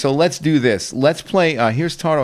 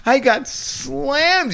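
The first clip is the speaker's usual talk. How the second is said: laughing. Real, not acted. Host laughing to co-host about getting slammed online. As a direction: laugh it out as you admit it.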